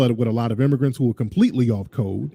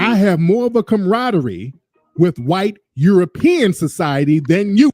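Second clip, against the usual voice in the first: voicing her meaning; 3 semitones higher than usual. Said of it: "that's her way to say".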